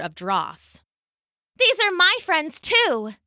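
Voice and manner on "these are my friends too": high, ringing call to the enemy; called out proudly. Acted. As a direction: stand beside your friends and call it out. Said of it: "Nezzy called".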